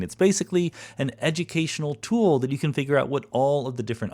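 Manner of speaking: upbeat podcast sponsor read; breezy mid-show advertisement voice. Acted. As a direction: sell it like a friendly host ad. Host reads sponsor ad.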